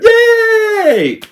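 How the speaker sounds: very high, loud mock cheer; gleeful cheer. Real, not acted. Reviewer celebrating Mystique dying, gleeful shout.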